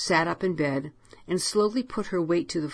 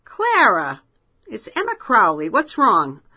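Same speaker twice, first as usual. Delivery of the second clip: worried friend; 5 semitones higher, 9 dB louder than usual. Acted. Worried friend calling late.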